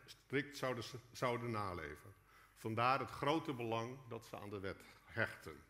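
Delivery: ordinary delivery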